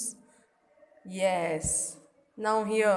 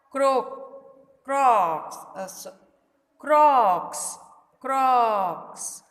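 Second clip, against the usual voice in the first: frog croak; 2 semitones higher, 4 dB louder, slower than usual. Shown as a demonstration. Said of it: "What sound does a frog make?".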